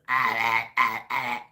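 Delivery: repeated short "ah" noises; imitated ack-ack bark. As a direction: drill instructor's ack-ack, mimicked in bursts. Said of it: "he was the ack-ack".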